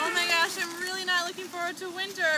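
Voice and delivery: mock whiny complaint. Shown as a demonstration. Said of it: "We could all do it too".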